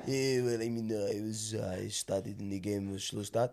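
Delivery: low, quiet put-on foreign-accented interview voice; Joey Barton. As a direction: mumble a post-match interview in a mock foreign accent. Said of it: "like Joey Barton done it".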